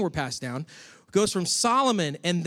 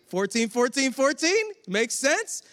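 higher, teasing count-off; lightly voiced smug Matthew; Matthew's voice; 7 semitones higher, slower than usual. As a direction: nudge them with each fourteen. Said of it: "it's almost like he's like".

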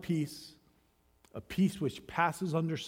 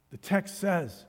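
ordinary talk, nothing marked

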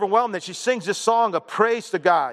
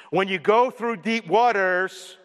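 slow, spaced-out reading for the congregation to follow; slow call line before the response; slow leading read; slower than usual. Shown as a demonstration. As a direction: lead the line slowly so they can echo. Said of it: "you guys say the underline".

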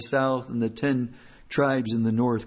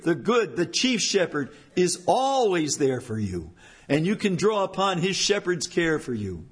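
higher, fervent preaching voice; impassioned preaching; 6 semitones higher than usual. Acted. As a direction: preach it out with rising fervor. Preacher rises to full force.

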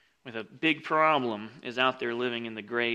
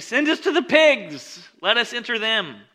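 pleading demon voice; 9 semitones higher, 7 dB louder than usual. Acted. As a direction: squeal like frantic demons.

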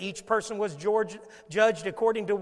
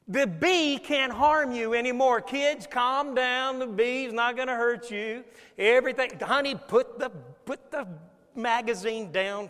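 dad calming family; 3 semitones higher, 3 dB louder than usual. Acted. Dad calming family in acted scene.

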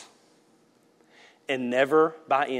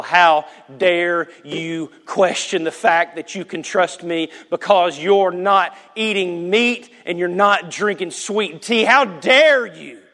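mock indignant rebuke; 4 semitones higher, 5 dB louder, slower than usual. God rebuking, acted.

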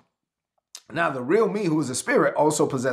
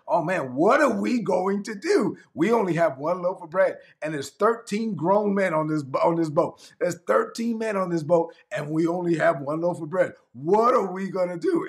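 higher, slowed mock panic of the disciples; 3 semitones higher than usual. Disciples panicking on the boat over one loaf. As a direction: ham up their worry over the bread. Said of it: "started complaining".

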